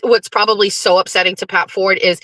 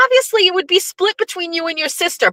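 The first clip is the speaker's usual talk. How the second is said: much higher, quick diplomatic answer; high fast mock reasonable; 9 semitones higher, faster than usual. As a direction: brush it off sweetly. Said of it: "And I was like".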